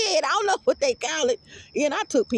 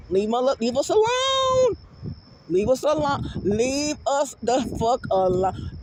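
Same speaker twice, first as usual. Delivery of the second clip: mock yell. Yelling at devils in basement.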